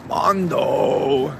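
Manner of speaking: loud call across the room. Real, not acted. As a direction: shout his name to find him. Calling out for Mondo.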